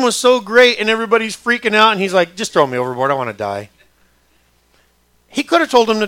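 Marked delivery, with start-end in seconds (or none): 2.4-3.7 resigned despair. Acted. Jonah giving up in the storm.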